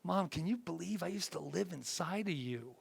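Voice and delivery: gently playful retold question; joking child to mom. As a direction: tease mom softly with mock amazement. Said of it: "I always make a big joke".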